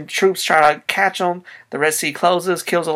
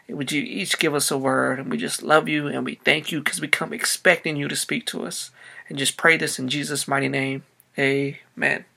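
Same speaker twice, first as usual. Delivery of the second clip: prayer; 4 dB quieter than usual. Acted. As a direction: pray quietly and earnestly to Jesus. Pastor prays before the sermon.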